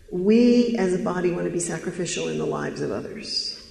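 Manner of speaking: "We" stretched and pushed at the start of each sentence; earnest mock pitch, weight on "We"; emphatic church pitch. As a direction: lean hard on every opening "We", then ease down. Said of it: "the emphasis of the words".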